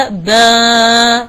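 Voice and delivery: slow "با" rising into the nose; nasalised ba. Shown as a demonstration. Teacher shows the wrong nasal "با". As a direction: send "با" up into the nasal passage. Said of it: "ليس با".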